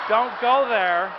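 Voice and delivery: slow, loud, drawn-out warning; loud mock warning. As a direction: hold the crowd back with a big slow warning. Mock warning to laughing crowd.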